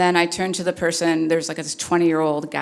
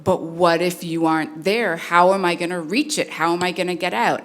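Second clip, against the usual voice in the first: mildly raised, worried run of questions; upset child; 3 semitones higher than usual. Retold or imitated. Five-year-old asking mom how he'll escape, mildly upset. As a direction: lightly imitate an upset little kid. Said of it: "he is genuinely upset".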